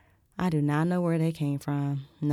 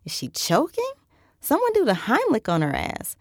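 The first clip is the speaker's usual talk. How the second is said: much higher, louder alarmed cry; panicked guests; 9 semitones higher, 5 dB louder than usual. A narrator's reading. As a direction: ask in a rising panic.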